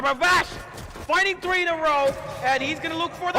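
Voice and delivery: rising play-by-play hype; building excitement call; excited. Real, not acted. Caster hype on multikill.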